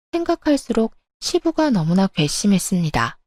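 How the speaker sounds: ordinary delivery, nothing marked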